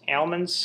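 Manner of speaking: almonds said AL-munds, questioning rise; trying out pronunciations. Shown as a demonstration. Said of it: "I was saying wrong".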